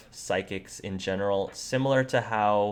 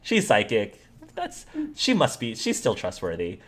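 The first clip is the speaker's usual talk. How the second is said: mock reassurance, pitched up; naive player reaction; 2 semitones higher than usual. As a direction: act out someone readily brushing it off. Imitating players' easy acceptance.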